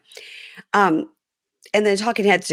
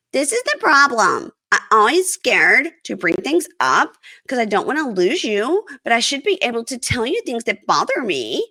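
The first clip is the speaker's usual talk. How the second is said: imitating pleading wife; 5 semitones higher than usual. Voicing wife pleading in quarrel.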